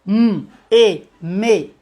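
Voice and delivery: "M" and "E" said as separate sounds, then blended as "me"; sounding out. Shown as a demonstration. Teacher modelling a blend for parents: sounding out. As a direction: give "M, E" one sound each, then merge them into "me". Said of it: "Aí você vai".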